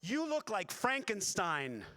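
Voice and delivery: high, slow, drawn-out declaration; imitating a fan triumphantly announcing it; pushy fan's verdict. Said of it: "he comes up to me and he goes".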